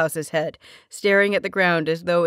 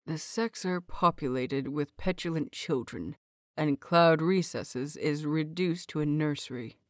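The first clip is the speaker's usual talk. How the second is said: much softer, lower grumble of an exasperated uncle; weary mutter; 3 semitones lower, 6 dB quieter than usual. A narrator's reading. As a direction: grumble it under your breath, fed up. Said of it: "Uncle mutters".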